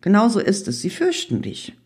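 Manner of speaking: high-pitched, giggly storybook voice; teasing giggle, lightly acted. A narrator's reading. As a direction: say it high, as if tittering. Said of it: "kicherte der April".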